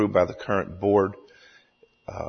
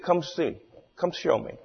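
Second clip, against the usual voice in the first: higher doubting challenge in mock Cajun; Cajun storyteller; 8 semitones higher, 5 dB quieter than usual. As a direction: challenge him in a lightly faked Cajun voice. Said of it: "tells the story in his hilarious Cajun accent".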